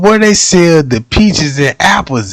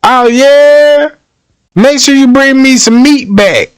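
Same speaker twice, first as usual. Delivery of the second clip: lightly voiced wife; 5 semitones higher than usual. Voicing wife in hunting skit.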